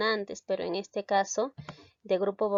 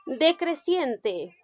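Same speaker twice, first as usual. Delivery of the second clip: slow announced term; 5 semitones higher, much slower than usual. Shown as a demonstration. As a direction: announce Decreciente slowly to the class. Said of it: "Decreciente es al revés". (Decreciente dicho despacio, como título)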